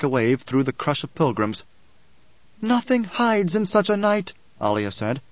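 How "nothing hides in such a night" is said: high, slow, solemn declamation; oracle's booming proclamation. A narrator's reading. Alia addresses pilgrims across the nave, booming oracle. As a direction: proclaim it slowly over the whole crowd. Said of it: "Her amplified voice boomed across the nave".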